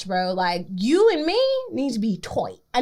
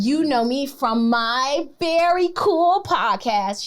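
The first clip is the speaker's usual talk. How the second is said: smug slow brag; slower than usual. Pretend. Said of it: "This is my moment to just take it".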